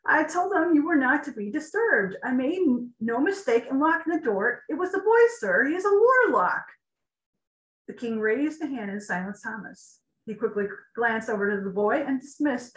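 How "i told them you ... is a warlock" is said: stammering guard. Acted.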